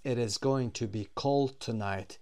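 slow, careful example sentence; slow model reading. Shown as a demonstration. Teacher reading the prediction example, slow and clear. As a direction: read it clearly for the class. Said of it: "teacher models example slowly".

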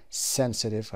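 slow "sensitive" with SEN stressed; stress on first syllable. Shown as a demonstration. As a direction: hit the opening syllable of "sensitive". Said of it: "قسمت اول".

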